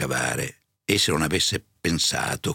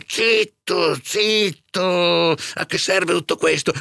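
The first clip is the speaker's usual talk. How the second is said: high, louder panicky shush; alarmed hushing; 12 semitones higher, 5 dB louder, slower than usual. A narrator's reading. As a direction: hush her in high-pitched alarm. Curato zittisce spaventato la serva. (zittire allarmato, voce acuta)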